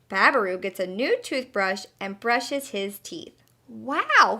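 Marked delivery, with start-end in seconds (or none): 3.7-4.4 excited. Acted. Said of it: "he yells".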